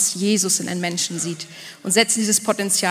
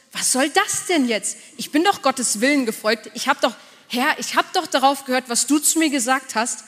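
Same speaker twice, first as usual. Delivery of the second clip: higher, bewildered protest at God; frustrated complaint; 4 semitones higher than usual. Pretend. Believer complaining to God about the storm, higher frustrated protest. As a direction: voice the listener's exasperated "why the storm". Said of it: "du denkst dir so".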